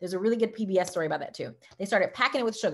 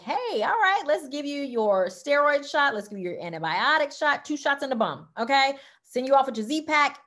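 higher, brisk-cheerful staff routine; breezy doctor's office; 6 semitones higher, 4 dB louder than usual. Retold or imitated. ENT staff greeting a regular patient, higher and brightly routine. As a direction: rattle it off like the nurse who's seen her a hundred times.

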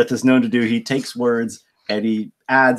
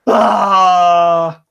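loud cry; 9 semitones higher, 8 dB louder than usual. Real, not acted. Cheers after the poem.

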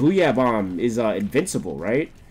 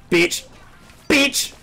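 loud insult rising higher on the repeat; taunting shout; 14 semitones higher, 5 dB louder than usual. Real, not acted. Player taunting an opponent in the game, escalating shout. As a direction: bark it, then shout it higher.

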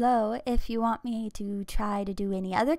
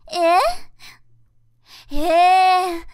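put-on high cute anime girl; 6 semitones higher, faster than usual. Voice acting anime girl lines.

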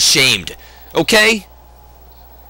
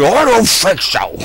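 mock quote; 5 semitones higher than usual. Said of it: "He went".

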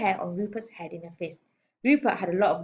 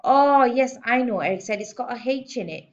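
put-on high, loud, pleased little boy; confident schoolboy; 4 semitones higher, 7 dB louder, slower than usual. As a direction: announce the answer as if it were easy. Schoolboy confidently corrects his spelling.

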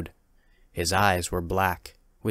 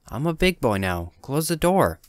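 demanding; 6 semitones higher than usual. Acted. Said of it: "he demands".

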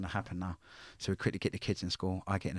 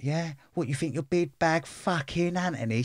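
mock a mouthy woman, higher and slower; mocking mum; 8 semitones higher, 4 dB louder than usual. Retelling the mum squaring up at the school, higher mocking voice. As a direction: sneer it back the way the kid's mum said it. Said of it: "And she's like".

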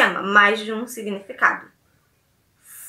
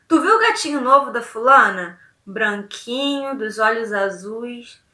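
suggestive gossip; 2 semitones lower than usual. Shown as a demonstration. Teacher showing students a flirty tone that means a handsome man. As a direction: linger over the blond blue-eyed man. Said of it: "Eu posso até fazer assim".

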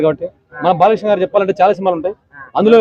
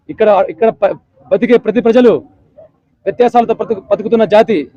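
Satakarni dialogue. Retold or imitated. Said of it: "Gautam Buddha శాతకర్ణిలో".

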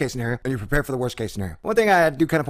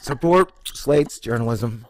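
ad read; slower than usual. Acted. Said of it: "I'm just reading the thingy".

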